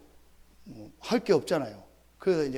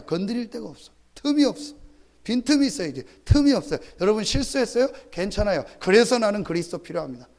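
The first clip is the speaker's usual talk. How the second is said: high, loud fervent preaching; preaching at full force; 6 semitones higher, 7 dB louder than usual. Acted. Preacher to congregation, fervent loud proclamation. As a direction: proclaim it with rising fervor.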